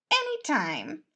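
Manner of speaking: high cocky quip; tossing off a smug reply; Remus, cheeky prince. Acted. Prince teasing Logan, high and smug.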